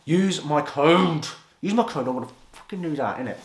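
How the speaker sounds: mock sponsored-influencer pitch; mock influencer plug. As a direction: parody a sellout pushing his code.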